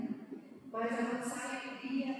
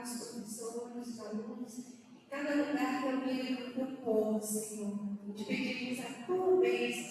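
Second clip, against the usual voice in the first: opening prayer. Acted. Opening prayer at church service.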